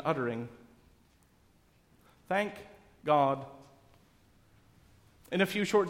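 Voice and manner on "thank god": slow, spaced out Thank and God; heartfelt. Acted. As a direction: say it sincerely with a pause between words. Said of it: "the most heartfelt words".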